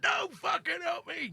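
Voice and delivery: angry shout. Retold or imitated. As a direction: yell it at the helper, drawn out. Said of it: "And he said".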